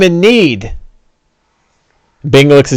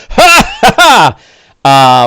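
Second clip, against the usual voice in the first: much higher, jeering ha ha ha; mocking laugh; 4 semitones higher, slower than usual. NPC laughs at the player's missed attack, mocking laugh. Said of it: "he's like".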